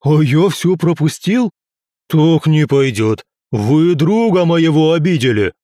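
slow, loud growling brawler; growling hussar. Acted. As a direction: rumble it like a rowdy hussar. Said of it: "Разразился каким-то рычащим смехом Ярослав".

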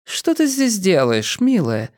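affectionate, lilting question; tender. A narrator's reading. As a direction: ask it fondly, like a loving mother. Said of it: "ласково улыбнулась дочери".

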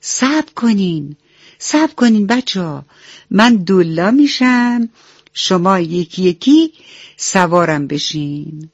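mock-loud big brother shouting wait; calling out loudly. Meg Meg calls the crying ducklings to stop, loud. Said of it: "با صدای بلند گفت".

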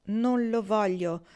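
slow, subdued repeat through a tear; quiet tearful repeat. Acted. Kendra refusing Pocket's gold again, slow and teary. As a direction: say it again slowly, holding back tears. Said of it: "ripeté".

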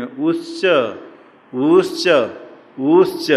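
उच्च with the opening उ stretched further each time; three vowel lengths. Shown as a demonstration. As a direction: recite उच्च three times, rising at each end. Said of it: "तीन कहने के लिए दिया है". (उच्च में उ की बढ़ती मात्रा)

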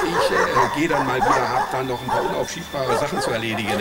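nervous laugh. Acted.

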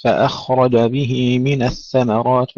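فأخرج with light hamza and heavy kha; slow tajweed recitation. Shown as a demonstration. Teacher reciting the verse for students. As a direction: recite slowly and carefully. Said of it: "لا نفخم الهمزة".

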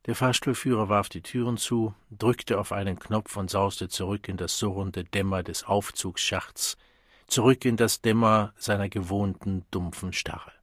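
ordinary delivery, nothing marked

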